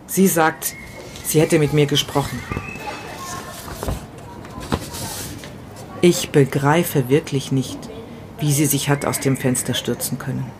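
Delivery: grieving first-person monologue, read with pauses; dramatic story reading. A narrator's reading. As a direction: read it like a widower talking to himself.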